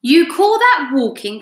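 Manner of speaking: mock the earthworm loudly; indignant cry. A narrator's reading. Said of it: "cried the centipede".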